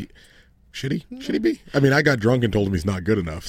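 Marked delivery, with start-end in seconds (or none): 0.7-1.6 incredulous question. Real, not acted. Mock disbelief about fan favorite.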